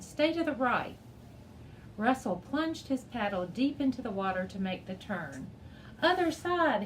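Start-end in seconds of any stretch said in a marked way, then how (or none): 0.0-1.0 yelled. A narrator's reading. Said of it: "Sage yelled". 6.0-6.8 high, loud belted order; shouted command mid-rapids. A narrator's reading. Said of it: "he belted at Dev".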